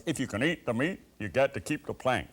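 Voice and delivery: put-on light American accent on the sign's slogan; a hint of an American accent; mock American accent. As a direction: lightly quote it in a Nebraska American twang. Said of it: "Sorry about the accent".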